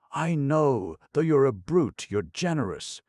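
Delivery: high, loud, effortful words; with difficulty. A narrator's reading. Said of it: "articulated with difficulty".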